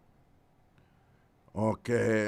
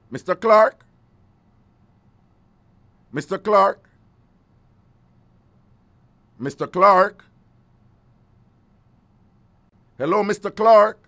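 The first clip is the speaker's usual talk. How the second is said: raised voice, calling into the phone; 6 semitones higher, 7 dB louder than usual. Real, not acted. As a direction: call his name loudly.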